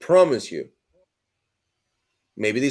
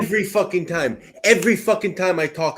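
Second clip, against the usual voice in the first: heated emotion; 3 semitones higher than usual. Real, not acted. Arguing with Todd about gains, heated and emphatic. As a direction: vent the frustration, hammering every fucking time. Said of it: "this is why I am so emotional".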